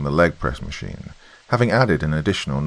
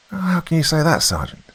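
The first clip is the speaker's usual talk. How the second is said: high-pitched mock outrage; feigned shock; 11 semitones higher than usual. A narrator's reading. Lance corporal teases his sergeant, feigning shock. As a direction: act scandalised, pitched way up. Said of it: "feigning shock in his voice".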